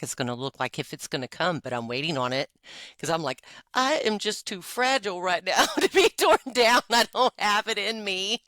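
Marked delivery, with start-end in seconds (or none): 3.7-8.4 laughing self-quote. Retold or imitated. Voicing her own fragile thoughts.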